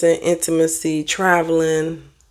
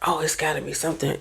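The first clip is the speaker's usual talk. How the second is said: mocking suspicious commenter; 8 dB quieter, faster than usual. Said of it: "Now you picking it apart".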